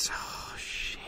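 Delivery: dismayed whisper, very soft; barely voiced dread; whispered swearing. Real, not acted. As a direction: curse under your breath. Dismay during play.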